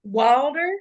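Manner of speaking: "Wilder" in a Kentucky accent. Shown as a demonstration. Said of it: "That's how I say it".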